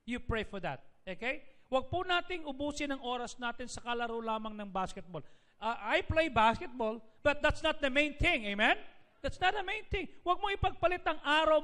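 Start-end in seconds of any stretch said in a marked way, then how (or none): 5.6-11.6 preaching. Acted. Pastor preaching to congregation.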